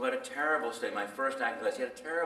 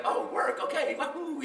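mock glee. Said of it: "It's like".

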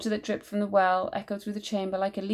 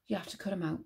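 breathless, soft gasp; 8 dB quieter, much faster than usual. A narrator's reading. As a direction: gasp it out in fear. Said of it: "Alfie gasped".

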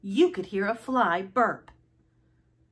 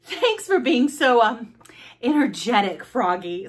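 librarian; 2 semitones higher, 4 dB louder than usual. Acted. Librarian thanks Froggy after story time, raised voice. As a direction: gush it a little as the librarian.

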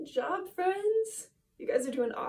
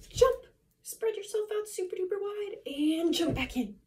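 gasp, then a loud high call; excited cheer; 7 semitones higher, 4 dB louder than usual. Acted. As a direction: pump the kids up. Energetic jumping-jack cue.

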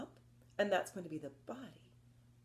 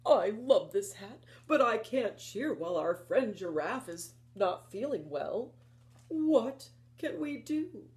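lion voice; 2 semitones higher, 4 dB louder than usual. Acted.

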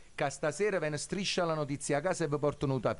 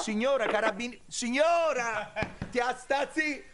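laughing; 7 semitones higher than usual. Real, not acted. Prankster cracks up on call.

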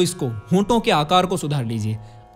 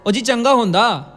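lilting Punjabi-accented exclamation; 3 semitones higher, 3 dB louder than usual. Shown as a demonstration. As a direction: put on a hearty Punjabi accent. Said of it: "ये Punjabi accent है". (पंजाबी लहजे में)

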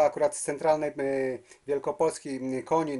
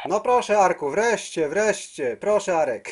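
higher and louder, delighted to finally hear him; excited greeting; 5 semitones higher, 5 dB louder, slower than usual. Real, not acted. Operator greeting his long-awaited radio friend Arek, excited. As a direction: call out gladly, finally!.

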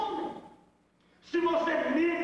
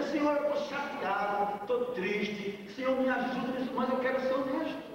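honest prayer. Shown as a demonstration. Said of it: "é assim, tem que ser".

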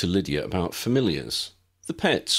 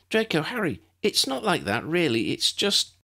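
put-on high, quick young girl cutting in; eager girl protesting; 10 semitones higher than usual. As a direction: jump in as the eager niece, pitched higher. Lydia jumps in protesting.

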